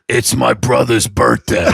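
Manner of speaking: put-on slow-witted buddy voice; Brian Half. Friend explains the missed calls, in impression. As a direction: imitate the friend's odd delivery. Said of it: "he talks like this".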